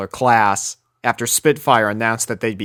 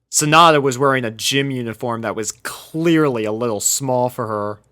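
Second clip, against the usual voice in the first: plain reading voice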